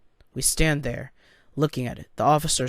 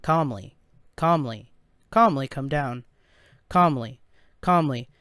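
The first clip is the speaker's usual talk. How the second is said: robot voice. Acted. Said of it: "stale robot-like voice".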